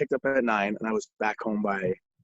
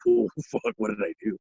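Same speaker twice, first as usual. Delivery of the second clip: high, sudden mock panic; imitating his own younger self realizing trouble; retold panic; 11 semitones higher than usual. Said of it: "now I'm, like, starting to think".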